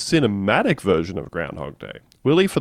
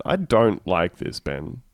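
usual speaking voice

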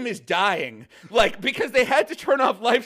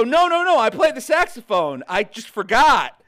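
insistent protest; 6 dB louder than usual. Retold or imitated. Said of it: "And I go".

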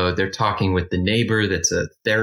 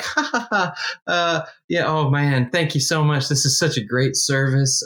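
giggly creepy caller; 4 semitones higher than usual. Retold or imitated. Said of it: "He's like".

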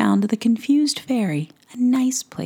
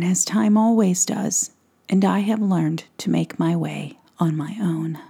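gentle. Acted. Woodsman consoling the lost fairy about his late wife, gently. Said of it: "And then, very gently".

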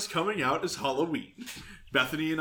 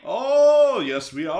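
put-on Transylvanian accent; 3 semitones higher, 6 dB louder, slower than usual. Keeps up Transylvanian host bit.

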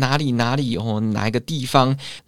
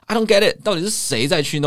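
bewildered exclamation; 7 semitones higher than usual. Acted. Baffled by arcades.

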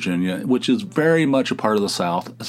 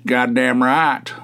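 put-on slow, drawn-out hick Southern accent; nasally Southern hick; 3 semitones higher, 4 dB louder, slower than usual. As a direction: talk through your nose like a Southern hick. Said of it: "talk through their nose".

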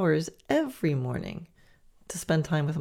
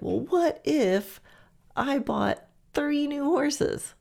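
high, slow wistful daydream voice; dreamy high what-if; 9 semitones higher, slower than usual. Retold or imitated. Listener dreaming up a wild idea, high and slow. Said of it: "if you're like".

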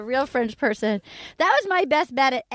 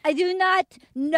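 mock French Canadian accent, pitched higher; Vanessa; 4 semitones higher than usual. Host cutting in as the contestant, mock French Canadian accent. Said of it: "whatever accent that she had is so faint".

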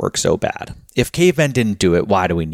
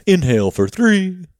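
lightly voiced coach counting breaths; a hint of a fitness coach giving counts; playful imitation of a breathwork instructor; mock breath coach; 10 semitones higher than usual. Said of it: "like, a coach".

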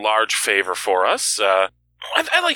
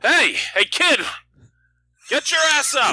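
mock yell. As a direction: yell upstairs as a prank. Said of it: "hold on one second, Mike. Ready?".

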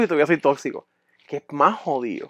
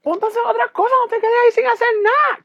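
very high, louder nag; shrill scolding girlfriend; 3 dB louder than usual. Retold or imitated. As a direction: order him around like his ex. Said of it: "lo prendía". (voz muy aguda regañando)

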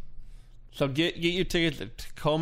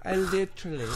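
laughing; 4 semitones higher than usual. Real, not acted. Both cracking up.

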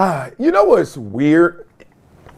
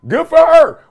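loud cheer; 10 semitones higher, 6 dB louder than usual. Real, not acted. Cheering on the ones who holler.

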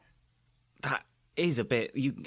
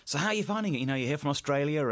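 lightly voiced breakfast-show host, pitched up; higher-pitched retold interview question; breezy radio interviewer; 6 semitones higher, faster than usual. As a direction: imitate a chirpy interviewer opening a question. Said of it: "would sort of say".

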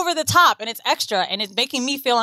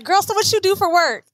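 lightly mimicked chummy neighbor, pitched higher; put-on slangy neighbor; 7 semitones higher than usual. Neighbor asks about her job, put-on slangy imitation. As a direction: imitate her putting on familiar street talk. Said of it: "every time she would talk to me that way".

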